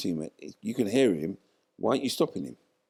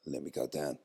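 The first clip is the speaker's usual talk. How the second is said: quiet firm resolve; 2 semitones lower, 6 dB quieter than usual. Retold or imitated. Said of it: "I said".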